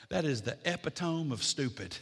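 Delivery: "epitome" said as EP-i-tome, rhyming with home; mispronounced "epitome". Retold or imitated. Son remarking to dad on something dumb, "epitome" misread as EP-i-tome. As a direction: say "epitome" in three syllables, stress on the first. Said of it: "I think, son, you mean epitome".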